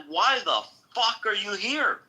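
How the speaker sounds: high-pitched, baffled challenge; incredulous. Retold or imitated. Speaker confronting the inspector at the event, incredulous. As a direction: retell it in open disbelief. Retelling his shocked reply to inspector.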